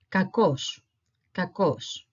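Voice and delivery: "Kakos" with stress on the o; Greek pronunciation demo. Shown as a demonstration. Teacher showing how it sounds altogether, careful Greek pronunciation. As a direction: model "Kakos" clearly as ka-KOS. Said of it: "it sounds like this".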